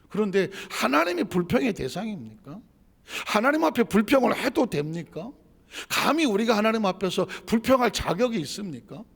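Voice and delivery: indignant pulpit challenge; forceful preaching. Real, not acted. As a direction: press the congregation question after question.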